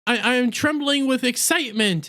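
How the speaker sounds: high-pitched mock indignant denial; retold snap-back, pitched well up; snapping back. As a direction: imitate a scaredy cat protesting too much. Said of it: "but snaps back".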